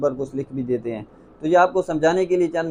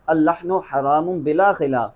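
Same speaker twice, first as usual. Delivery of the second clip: quoted ruling; slower than usual. Retold or imitated. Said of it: "آپ فرماتے ہیں".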